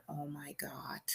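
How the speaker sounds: breathless, barely voiced gasp of fear; terrified whisper. Frightened young woman whispering to herself in horror. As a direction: whisper it in shock as his hand moves in.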